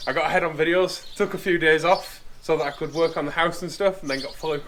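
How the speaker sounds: slightly wheezy from flu; a bit wheezy, chesty voice. Real, not acted. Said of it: "if I sound a bit, uh, a bit wheezy".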